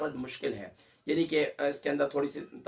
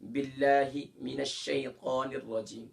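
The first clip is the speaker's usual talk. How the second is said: tajweed demo; slower than usual. Shown as a demonstration. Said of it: "पहले मैंने أعوذ सिखाया था".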